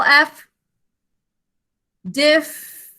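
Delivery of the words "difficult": "Difficult" with a long pause after "dif"; broken into syllables. Shown as a demonstration. Teacher showing the double F, "Difficult" split into separate syllables. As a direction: hold the f closing "Dif", then "fi", "cult". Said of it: "One in the first syllable".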